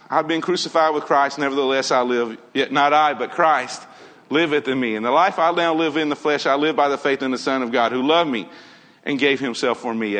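quick recitation of the verse; said fast. Shown as a demonstration. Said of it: "I kinda said that fast".

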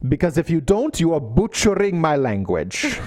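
lightly voiced Italian professor; a hint of an indignant teacher's voice; Professoressa Nelson. Quoting the Italian professor scolding students, lightly voiced teacher. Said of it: "I'm quoting her, Professoressa Nelson".

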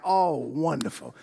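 drawn-out delight. Acted. Chicken delighted the pig agrees.

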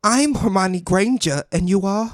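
Hermione Granger. Acted. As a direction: imitate a British schoolgirl, unhurried. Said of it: "I'm not good with Hermione Granger".

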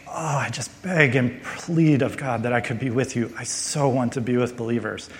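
acted longing, mildly heartfelt; pleading. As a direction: ache to be with them, understated. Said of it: "He's crying out to God".

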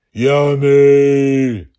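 loud, high monster roar. A narrator's reading. Goblin monster gloats over the child, loud roar. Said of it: "he roared".

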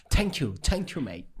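a touch of stage Irish; mock Irish accent. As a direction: play along in Irish. Continues the Irish accent game.

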